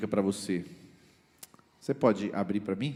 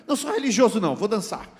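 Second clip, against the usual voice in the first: mock proud dancer; 10 semitones higher, 9 dB louder, faster than usual. Mocking a showy religious man.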